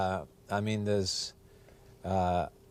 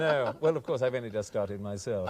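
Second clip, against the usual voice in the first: put-on upper-class English toff accent; Hooray Harry accent. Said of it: "One of the Hooray Harrys".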